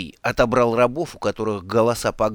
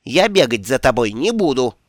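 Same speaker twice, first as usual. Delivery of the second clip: louder parting shout; 5 dB louder than usual. Acted. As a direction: shout it after the vanished boy. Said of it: "крикнул Ом".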